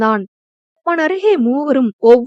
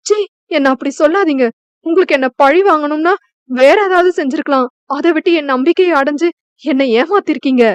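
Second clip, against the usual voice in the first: hurt anger; 3 semitones higher, faster than usual. Acted. Betrayed bride confronts her husband, fast and hurt. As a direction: fire it back at him in betrayed fury.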